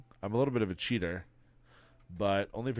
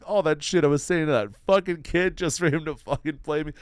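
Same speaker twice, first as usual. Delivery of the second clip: angry self-rant; 7 semitones higher, 9 dB louder than usual. Retold or imitated. Angry retold self-talk in bed.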